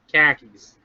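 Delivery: khakis for car keys, r dropped; broad Boston car keys; Boston accent. Shown as a demonstration. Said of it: "I'm from Boston".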